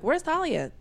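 high, sharp stepmom question; asking stepmom. Retold or imitated. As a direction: demand where the girl is. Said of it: "She was like".

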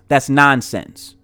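slow, understated dismissal as Paul; disapproving rebuttal. Acted. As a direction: dismiss it slowly, with mild disapproval. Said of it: "Paul saying something like this".

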